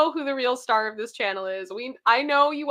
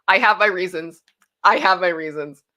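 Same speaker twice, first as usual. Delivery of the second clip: coy reply; 4 semitones lower, 6 dB louder than usual. Acted. Teasing reply about sipping Coke.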